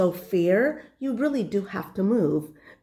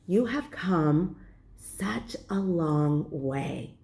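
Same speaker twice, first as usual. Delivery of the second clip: soothing self-talk; 4 semitones higher than usual. Retold or imitated. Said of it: "I talk myself out of it".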